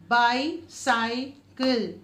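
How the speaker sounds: slow, each syllable apart. Shown as a demonstration. Teacher counting syllables for children, slowly. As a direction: tap out every syllable. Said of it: "which has three syllables".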